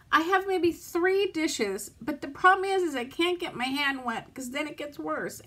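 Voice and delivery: talking while weeping; crying. Real, not acted. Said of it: "sit here and cry on camera".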